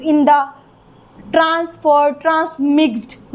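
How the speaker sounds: "in the" together, then a stop before ट्रांसमिक्स्ड; pause demonstration. Shown as a demonstration. Teacher replays where she stopped, pausing at ट्रांसमिक्स्ड. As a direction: break deliberately around ट्रांसमिक्स्ड. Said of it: "रुकी".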